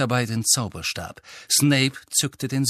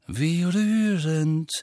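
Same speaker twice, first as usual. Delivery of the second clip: slow mocking sneer, drawn out; 7 semitones higher, much slower than usual. A narrator's reading. Snape mocking Sirius's threat, slow sneer. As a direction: drag it out, dripping with scorn. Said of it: "höhnte Snape".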